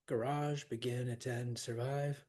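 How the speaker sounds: "garage, begin, attend, survive", each stressed on its second syllable; iambs. Shown as a demonstration. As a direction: run evenly through ga-RAGE, be-GIN, at-TEND, sur-VIVE. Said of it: "those are our I ams".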